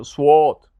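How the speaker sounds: سواد with an added w, "swaad"; سواد, rounded w after the s; mistaken Sad. Shown as a demonstration. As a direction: mimic the error, gliding through w in سواد. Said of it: "سواد غلط است".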